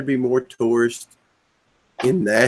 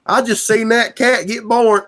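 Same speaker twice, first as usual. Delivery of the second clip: loud, high excited shout; mock yell; 10 semitones higher, 4 dB louder than usual. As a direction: yell it out like you just saw a miracle. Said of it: "did you point and yell".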